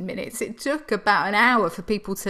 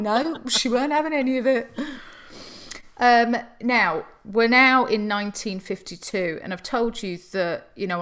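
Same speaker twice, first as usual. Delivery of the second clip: normal talking voice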